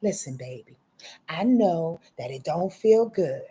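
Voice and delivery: lightly voiced mom calming her child; a hint of a mother soothing; mother's voice. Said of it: "now I'm taking on my mother's voice".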